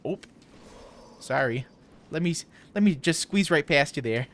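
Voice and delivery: lightly Midwestern "oop, sorry"; Midwestern accent. Retold or imitated. Midwesterner squeezing past someone they bumped, light Midwestern accent. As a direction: excuse yourself with a hint of Midwestern twang. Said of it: "Midwesterners, whenever they bump into someone, will go".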